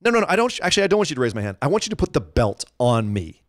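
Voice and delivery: lightly mock-gloating, toying with the listener; Becky gloating. Co-host imitating Becky taunting Charlotte, gloating. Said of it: "was gloating about it".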